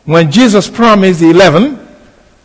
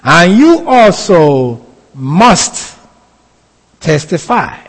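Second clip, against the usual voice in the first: slow scripture reading; slower than usual. Shown as a demonstration. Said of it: "He reads".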